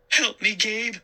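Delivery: high pleading voice. A narrator's reading. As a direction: beg for help. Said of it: "Sari pleaded".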